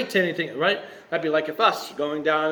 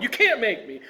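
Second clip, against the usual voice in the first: higher-pitched mock tantrum; foot-stomping defiance; 5 semitones higher than usual. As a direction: refuse like a stubborn, stomping child. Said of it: "stomping his feet and saying".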